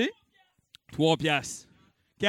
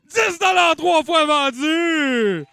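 slow, loud, higher final call of the sale; sold call; 7 semitones higher, 6 dB louder, slower than usual. Real, not acted. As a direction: stretch out the closing as the hammer falls. Auctioneer closing the sale. (adjugé, lent et crié fort)

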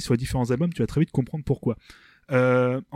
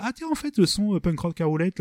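higher-pitched voice of surprised record executives; major labels talking; 6 semitones higher than usual. Retold or imitated. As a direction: act out labels suddenly noticing punk rock. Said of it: "les majors ont commenté". (les majors qui s'étonnent, voix plus aiguë)

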